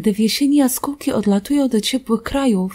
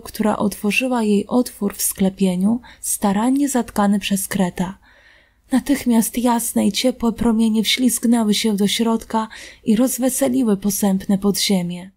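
ordinary delivery

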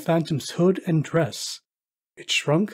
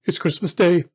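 to himself; 2 semitones higher, 5 dB louder than usual. Acted. Scrooge speaking to himself, marvelling. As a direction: realise it with delight. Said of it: "said Scrooge to himself".

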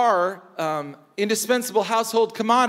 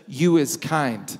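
tender nanny's words; 5 semitones lower, slower than usual. Retold or imitated. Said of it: "She says".

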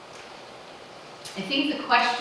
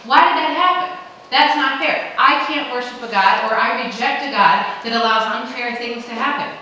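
protesting "why"; 3 semitones higher, 8 dB louder than usual. Retold or imitated. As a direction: voice the outraged complainer. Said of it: "I hear this from people".

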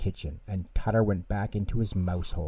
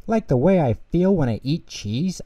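Tutter voice; 7 semitones higher, 5 dB louder than usual. Acted. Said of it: "asked Tutter".

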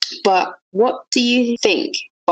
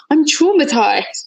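high, slow mock despair; hammed-up horror, drawn out; mock traumatized; 8 semitones higher, slower than usual. Friend joking she's traumatized, high and slow. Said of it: "mock declaration after anecdote".

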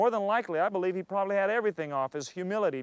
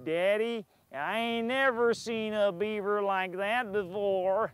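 slow little beaver voice; young beaver asking its father, slow and wondering; baby beaver; slower than usual. Pretend. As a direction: play a curious young beaver, slowly. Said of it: "one beaver going".

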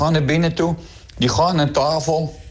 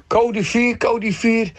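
raised, higher mock scream; wife screaming; 7 semitones higher, much slower than usual. Wife cries out to husband in bed, high mock yell. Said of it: "Begint die vrouw in één te schreeuwen".

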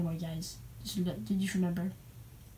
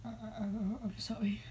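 mock crying whisper; 7 dB quieter than usual. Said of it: "I'm crying too much".

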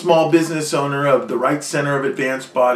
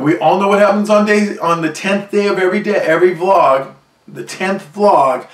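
excited teaser; 5 semitones higher, 5 dB louder than usual. Real, not acted. Hyped teaser for song day.

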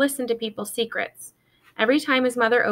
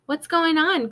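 calling up higher to a window; 7 semitones higher, slower than usual. A narrator's reading. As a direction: shout up to a friend across the street. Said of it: "called Benjamin".

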